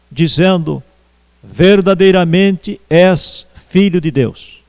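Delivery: measured, solemn Bible reading; deliberate reading with pauses between phrases; scripture reading. Acted. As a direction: read the passage aloud to a congregation, phrase by phrase. Reads Bible passage aloud to congregation.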